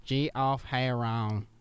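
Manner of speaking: slow repeat. Acted. Repeating name slowly.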